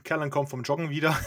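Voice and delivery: lachend erzählt. Real, not acted. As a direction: bricht beim Satz in Lachen aus. Spielleiter lacht beim Erzählen.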